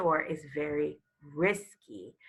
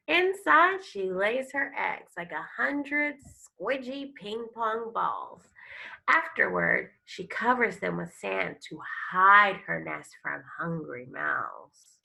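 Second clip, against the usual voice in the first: louder, expressive reading of a turtle picture book; storybook read-aloud; 4 dB louder than usual. Acted. Teacher reading a turtle book to her class, expressive storytelling. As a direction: read it like a nature story for kids.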